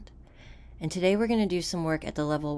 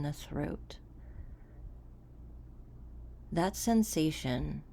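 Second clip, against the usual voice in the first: softer, unhurried delivery with long pauses; guided meditation; 5 dB quieter than usual. Acted. Coach guiding listeners to settle into the body, calm guided meditation. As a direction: guide a listener calmly inward, leaving room between phrases.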